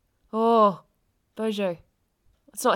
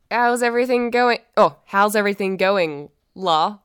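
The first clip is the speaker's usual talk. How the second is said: "la" set apart as if asking; questioning tune. Shown as a demonstration. Student trying out new slang in a sentence, questioning tune. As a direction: ask it, leaving a gap before "la". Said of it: "Not a question mark".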